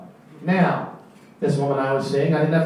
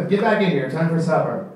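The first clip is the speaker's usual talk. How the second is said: loud, higher parent call; calling kid; 3 semitones higher, 3 dB louder than usual. Pretend. Calling child in for supper.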